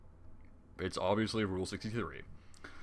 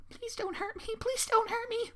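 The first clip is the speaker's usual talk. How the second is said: much higher, squeaky begging pony; pleading Fluttershy; slower than usual. Acted. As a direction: beg for mercy in a tiny voice. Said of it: "Fluttershy said".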